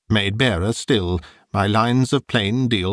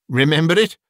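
Scrooge flares up, fervent and eager; fervent cry; 6 semitones higher, faster than usual. A narrator's reading. Old Scrooge to the ghost, an eager fervent cry. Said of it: "cried Scrooge with fervour".

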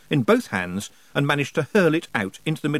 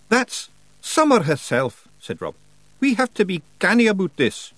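high, broad Scots wee man, cheeky and gruff; a higher pitched Scots brawler voice; Scottish pictsie Rob; 8 semitones higher, 4 dB louder than usual. Acted. Pictsie chief thanking nobody for thanks, in a high Scots voice.

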